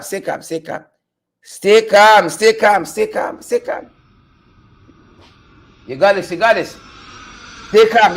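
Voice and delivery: forced calm. Pretend. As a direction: talk yourself down, fading to a hush. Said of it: "forced calm chant".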